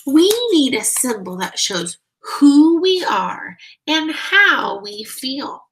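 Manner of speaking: rally the marchers with a big idea; Harvey speaking out with conviction; eager inner voice. Acted. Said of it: "he thought".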